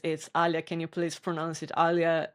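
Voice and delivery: patiently correcting how Alia is said; correct name pronunciation. Retold or imitated. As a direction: say Alia clearly, l gliding into a y sound. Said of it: "even though I keep telling it".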